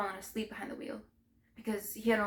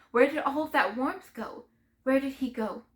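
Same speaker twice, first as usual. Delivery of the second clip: loud, higher-pitched grieving questions; anguished outburst; 4 semitones higher, 7 dB louder than usual. Acted. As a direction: demand an answer, voice rising. Anguished questions about dead boyfriend.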